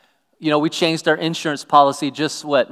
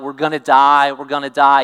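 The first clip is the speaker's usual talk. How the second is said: mock panic; 6 dB louder than usual. Disciples panicking in storm.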